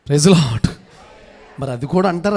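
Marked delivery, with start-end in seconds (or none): 0.1-0.7 loud, short praise shout; congregation call. Real, not acted. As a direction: shout it to the crowd. Calling congregation to respond. (గట్టిగా స్తుతి నినాదం)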